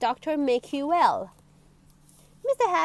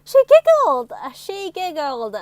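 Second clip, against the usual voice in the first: giggling; 6 semitones higher, 13 dB louder than usual. A narrator's reading. Narrator acting out giggling.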